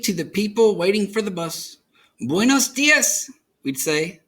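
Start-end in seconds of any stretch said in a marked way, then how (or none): 2.2-3.3 higher, slow, sing-song hello; cheerful greeting. A narrator's reading. Girl and abuela greeting bus riders, higher and slow. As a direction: greet the people below.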